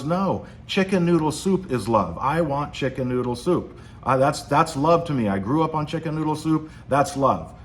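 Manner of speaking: a husband who has had enough, lightly played; mock fed-up husband. Husband tells his wife chicken noodle soup is love, mock fed-up. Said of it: "he finally just has had enough".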